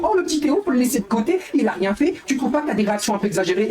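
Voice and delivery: high, mocking imitation of a friend scolding him; mocking Letty. Streamer imitating Letty defending Théo, high mocking voice. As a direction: put on a high patronising voice, mocking. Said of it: "Letty va dire".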